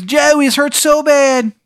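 high, slow, moaning falsetto; dying Steve. Acted. GM voicing the murdered Steve's dying recording, high pained moan. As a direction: whimper it out in a pained squeaky voice. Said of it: "He goes".

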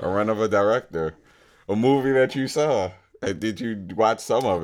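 muffled, spoken into a cup. Real, not acted. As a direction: voice echoing inside a mug. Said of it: "Why are you talking into your cup?".

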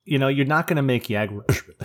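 words pushed out through a burp. Real, not acted. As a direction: burp mid-sentence while talking. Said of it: "as I burp into the fucking mic".

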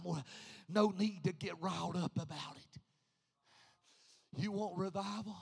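quiet calming aside. Real, not acted. Preacher calms church, seats them.

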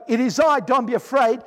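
"It is I, don't be afraid" said out loud and firmly, with "don't" stressed; firm call. Pretend. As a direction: call across the water to the frightened disciples. Jesus calls to disciples, voiced.

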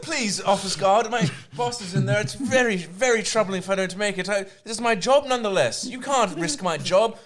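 pleading traveller. Retold or imitated. Acts out pleading with airport guard.

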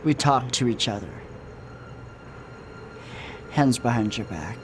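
weird cop villain voice. Acted. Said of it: "How do you talk like that?".

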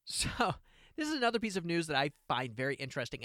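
normal talking voice

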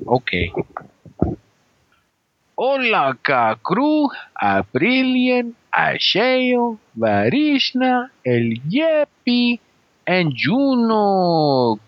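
put-on playful Mexican Spanish accent, Chicano slang. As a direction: lean into a Mexican accent like a homie greeting the crew. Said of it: "my husband's, um, interesting accent".

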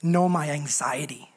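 whispered plea. Acted. Whispered repeat.

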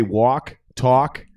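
East Coast vowels on walk and talk; drawn-out East Coast vowels; East Coast accent. Shown as a demonstration. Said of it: "like I'm on the East Coast".

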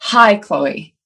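open, assured greeting; beaming confident hi. Retold or imitated. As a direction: greet her like you own the room. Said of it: "just beams at her".

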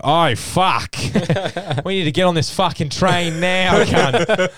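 high, loud, urgent yell; acting out a frantic scramble, loud and high; retold panicked shout. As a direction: shout it like you must board right now. Retold panic rushing for the train.

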